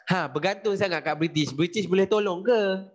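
mildly mocking challenge to the listeners; goading mock question; communists taunting the people. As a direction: needle them with a rising, lifted voice. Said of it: "Komunis pun cakap".

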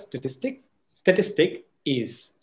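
"statistics" heard as singular "statistic", then "is"; "statistic is", singular, with "is" set apart; lost plural ending. Shown as a demonstration. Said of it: "Computer is going to pick it up as".

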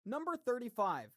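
crisp bingo caller announcement. Acted. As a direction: call the number out to the hall. Calls bingo numbers.

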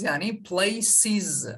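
places çok yavaş, pleysız, ız hecesi belirgin; places'i ağır ağır heceleyerek söyle. Shown as a demonstration. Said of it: "biz buna E S ekliyoruz". (öğrencilere yavaş places)

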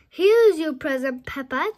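chuckling Santa. Acted. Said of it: "chuckles Santa".

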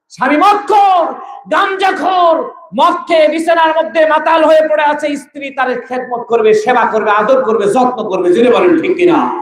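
high opening cries, then a falling list; impassioned preaching. Real, not acted. Preacher describes wife serving drunkard husband, high impassioned preaching. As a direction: call it out high and let it descend.

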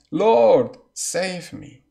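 loud cry that drops on save me. Acted. Sinking Peter cries out loudly to Jesus. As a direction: Peter sinking, crying out to the Lord. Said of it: "He cried, saying".

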